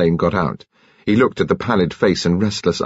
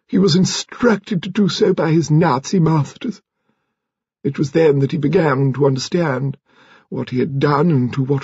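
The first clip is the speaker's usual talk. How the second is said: high-pitched, measured grande dame; lady confessing; 7 semitones higher than usual. A narrator's reading. Lady Lacklander revealing her husband's treachery, high and formal. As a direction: recount the shame in a raised, formal voice.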